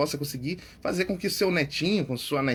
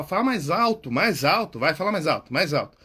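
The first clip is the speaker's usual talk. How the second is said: loud, pushing demand to speak up; urging louder; 4 dB louder than usual. Retold or imitated. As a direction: press someone to speak louder. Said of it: "Aquela pessoa que você fala".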